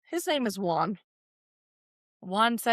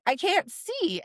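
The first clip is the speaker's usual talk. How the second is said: small plaintive voice; 9 semitones higher than usual. Retold or imitated. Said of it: "And she's like".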